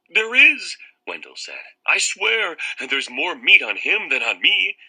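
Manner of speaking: high, loud anxious insisting; desperate pleading. Acted. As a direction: swear it desperately. Boy begging vampire.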